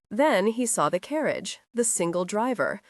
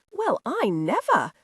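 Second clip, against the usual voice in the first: maid yelling, outraged and higher; indignant yell; 5 semitones higher than usual. A narrator's reading. Maid in the carriage, thrown down, yelling in outrage. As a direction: cry it out, scandalised. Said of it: "yelled Dorcas".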